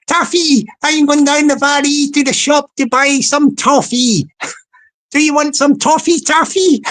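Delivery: put-on sing-song Welsh accent; mock Welsh accent. Joker hailing an imagined Taffy, mock Welsh accent. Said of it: "a nickname for a Welsh guy".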